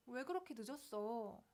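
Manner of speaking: gentle, unaccusing question to a late friend; loving question. Acted. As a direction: ask with concern, not blame. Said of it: "이런 식으로 사랑을 하는 거예요". (다정하게 묻는 말투)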